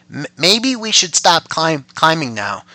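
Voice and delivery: a scared rabbit stammering from a pocket; mild nervous stutter. Acted. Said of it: "said the rabbit from inside".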